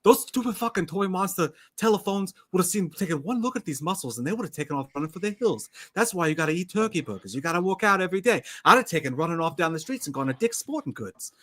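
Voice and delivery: lightly slurred tough-guy bragging; a hint of a drunk macho actor; drunk Mark Wahlberg. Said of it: "You're drunk again, Mark Wahlberg".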